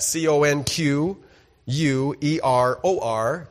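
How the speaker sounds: blocked nose; nose plugged up. Real, not acted. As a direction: spell it through a pinched nose. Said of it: "with my nose plugged up".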